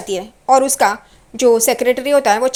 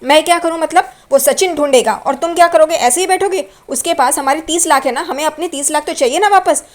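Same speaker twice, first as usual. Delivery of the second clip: higher, louder angry shout; yelling at husband; 5 semitones higher, 3 dB louder than usual. Retold or imitated. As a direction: scold him for sitting idle. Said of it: "रोशनी उस पे चिल्लाती है". (पत्नी पति पर चिल्लाती हुई, गुस्से में)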